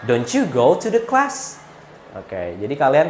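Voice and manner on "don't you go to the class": mildly doubting. Shown as a demonstration. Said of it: "agak kurang meyakinkan".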